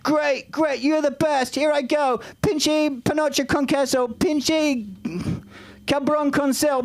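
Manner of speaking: high, drawn-out, gleeful ordering; clueless tourist, high and delighted; eager tourist. Acted. Naive tourist repeats the order.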